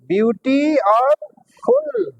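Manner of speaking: ब्यूटी, then फुल set apart after a pause; split into syllables. Shown as a demonstration. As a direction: break the word slowly into ब्यूटी और फुल. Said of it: "कितने syllable हो गए यहाँ".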